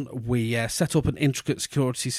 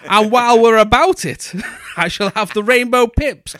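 put-on a haughty child lording it over the shopkeeper; haughty posh kid; 10 semitones higher, 8 dB louder than usual. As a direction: demand it grandly, like a spoilt little lord. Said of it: "hands on your hips and go".

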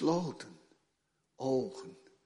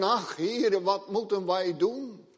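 frightened cry; 12 semitones higher, 11 dB louder than usual. Acted. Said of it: "hij hoort hem roepen".

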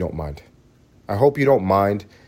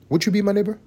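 much higher sing-song ask; high childlike invitation; sing-song plea; 12 semitones higher, faster than usual. Shown as a demonstration. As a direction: coax like a kids' TV host.

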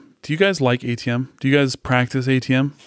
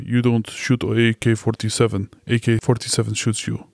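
put-on Russian accent. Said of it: "Jake's Russian accents".

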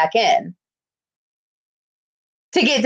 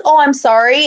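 mock sincere apology, louder; genuine-sounding apology; 6 dB louder than usual. Guest relations apology as it should have been, sincere. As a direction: imitate an apology that is meant. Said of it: "it wasn't like".

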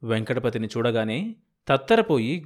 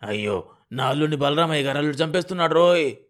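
wailing lament; 3 dB louder, faster than usual. Acted.

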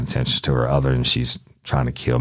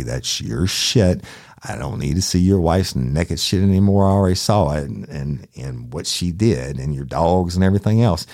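exasperated denial. Retold or imitated. Detective telling crying client he has no tape, exasperated. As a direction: retell it fed up, spelling out the denial.

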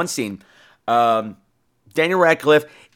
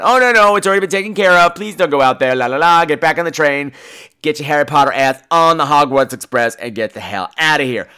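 panicky villager; 4 dB louder than usual. Retold or imitated. Townsfolk urging him to leave.

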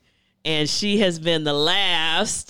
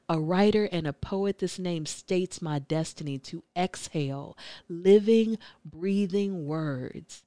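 spoken word poem. Acted. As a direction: recite it like a spoken word poet. Poet recites her name poem.

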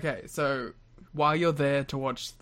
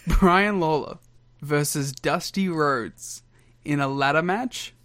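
mock ring announcer; 4 dB louder, slower than usual. Announcing the match grandly.

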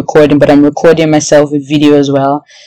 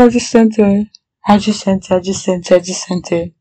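disbelief fading; 3 semitones higher than usual. Real, not acted. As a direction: let the awe sink in, trailing off. Disbelief after sending.

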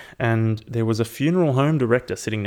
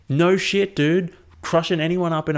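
incredulous; 7 semitones higher, 4 dB louder than usual. Real, not acted. Incredulous reply to funeral story.

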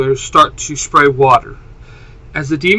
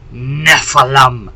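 raspy demon voice; 2 semitones lower, slower than usual. Acted. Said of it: "in a raspy voice as fire spits".

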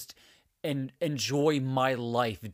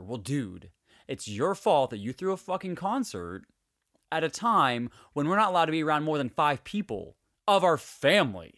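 exasperated rant at a reckless neighbour; heated but not shouted; 3 semitones higher, 4 dB louder than usual. Real, not acted. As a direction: tell him off, fed up and incredulous. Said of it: "my little rant".

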